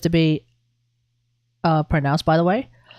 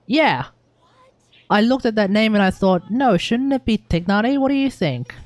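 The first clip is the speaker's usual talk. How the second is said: higher-pitched retelling of an actor's question; quoted voice actor; 5 semitones higher than usual. Retold or imitated. Streamer quoting the English voice actor of Tignari, higher quoted voice. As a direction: imitate an actor politely querying a name, pitch raised. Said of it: "when he said".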